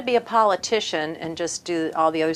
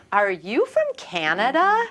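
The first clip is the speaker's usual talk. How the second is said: higher, slow, drawn-out question; stretched-out mock query, pitched up; quoted puzzled question; 6 semitones higher, slower than usual. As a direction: imitate a curious stranger asking. Quoting strangers puzzled by her accent.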